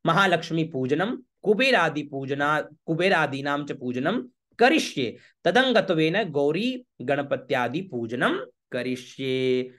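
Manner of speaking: slow ceremonial recitation with lengthened endings; Sanskrit recitation. Shown as a demonstration. Priest closes the sankalp for worshippers, slow Sanskrit recitation. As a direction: stretch the closing words of the vow.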